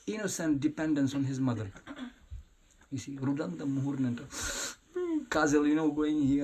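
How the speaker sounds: ordinary talk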